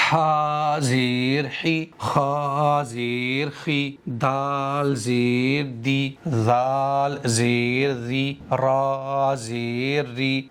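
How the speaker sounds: slow, even recitation of each letter and vowel; measured letter-by-letter recital; slow spelling drill. Shown as a demonstration. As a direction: spell each syllable slowly, like teaching children to read.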